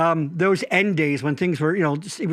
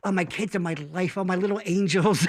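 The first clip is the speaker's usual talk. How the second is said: sappy doting dad; 4 dB quieter than usual. Retold or imitated. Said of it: "where was I".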